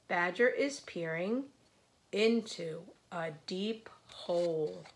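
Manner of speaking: lively, measured picture-book narration; read-aloud to children. A narrator's reading. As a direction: read it out rhythmically for little listeners.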